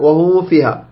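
"وهم فيها" with a blurred meem; mistaken hidden meem. Shown as a demonstration. Teacher warns against hiding it, hidden meem. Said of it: "لا تخفيها".

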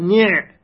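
نع as one syllable ni', closed on the ayn; ni' cut out alone to show the silent-vowel ayn; ayn with sukun. Shown as a demonstration. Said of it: "يعني العين ساكنة".

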